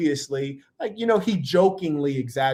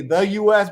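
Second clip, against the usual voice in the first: louder, higher "The", said in full; stress on THE; 4 semitones higher, 5 dB louder than usual. Shown as a demonstration. Correcting his grammar, stress on "The". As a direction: punch "The" ahead of U S. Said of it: "we usually say".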